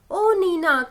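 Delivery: a storybook mother's exclamation; mild cry out. A narrator's reading. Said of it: "cried mother". (हल्की पुकार भरी आवाज़)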